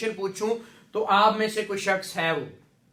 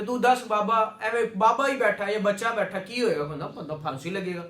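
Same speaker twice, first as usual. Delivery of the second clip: common man's Punjabi; 2 semitones lower than usual. Retold or imitated. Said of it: "एक आम शख्स ये कह रहा है".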